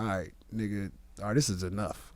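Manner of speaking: low, soft and weary; worn out. Retold or imitated. Tired boxer telling his opponent it's enough, weary. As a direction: wave it off like a spent fighter. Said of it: "I was tired as shit".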